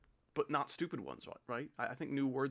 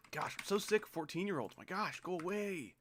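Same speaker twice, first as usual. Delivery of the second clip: exasperated whine; 6 semitones higher than usual. Real, not acted. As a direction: whine it like you've had enough. Fed up with fourteen-year-olds.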